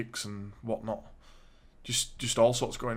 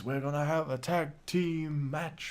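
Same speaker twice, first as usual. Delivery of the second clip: Teddy Long impression; 3 semitones higher, 4 dB quieter, slower than usual. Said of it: "I think Teddy Long was booking it".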